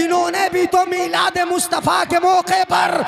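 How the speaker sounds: escalating declamation, pitch climbing to the end; building full-force preaching. Real, not acted. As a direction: build phrase by phrase into a rousing cry to the crowd.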